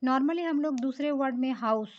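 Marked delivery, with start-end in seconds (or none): 1.5-1.9 हाउस with an audible H at the start; H pronounced. Shown as a demonstration. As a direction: say हाउस opening on a sounded H. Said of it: "वहाँ पे एच उच्चारण आ रहा है".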